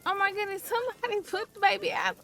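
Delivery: high, frantic cry for help; panicked pleading. Real, not acted. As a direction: plead urgently as the pitch climbs. Sim on fire, begging for rescue.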